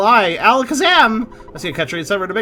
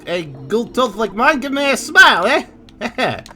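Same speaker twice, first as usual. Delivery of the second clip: higher, louder mock Texan brag; Texan accent; 4 semitones higher, 4 dB louder, slower than usual. Gamer voicing a gold-toothed local's boast in a mock Texan accent. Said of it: "everybody is Texan".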